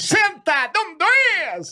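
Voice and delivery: very high, drawn-out command yell; shouted sergeant order. Acted. Sergeant ordering a recruit to sit, bellowing. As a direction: bellow the order, stretching the words. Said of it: "gritando o tempo todo".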